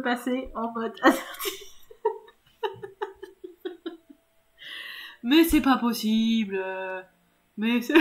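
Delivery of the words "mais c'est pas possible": loud, drawn-out exasperation; amused exasperation; exasperated. Real, not acted. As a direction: protest loudly, dragging out the words. Exasperated at failing in the game.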